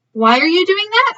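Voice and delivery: put-on high, curious little boy; lightly voiced curious child. A narrator's reading. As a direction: ask it like a curious kid. Child character asks, voiced high.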